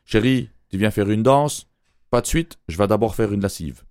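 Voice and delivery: lightly put-on Quebec French accent. Host playing a Quebec lover, in a mild Quebec accent. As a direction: ask for a dance in a light Québécois accent. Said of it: "Avec mon superbe accent québécois".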